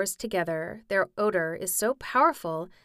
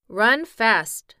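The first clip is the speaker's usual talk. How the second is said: creaky scarecrow; 3 semitones higher, 9 dB louder than usual. Acted. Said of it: "said the Scarecrow to the Lion".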